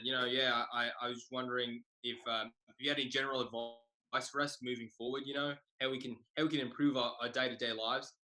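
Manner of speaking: lightly imitated Australian student; mild fake Australian accent; put-on Australian accent. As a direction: ask politely in a mock Australian accent. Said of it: "I do an accent for an entire year".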